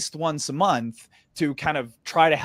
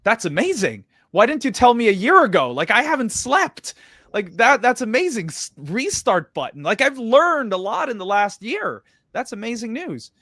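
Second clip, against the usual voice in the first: much higher and louder, gushing with relief; retold elation; 9 semitones higher, 5 dB louder than usual. Retelling his joy at the adviser's fresh-start offer, higher and louder, overjoyed. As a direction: spill over with excitement like a weight just lifted.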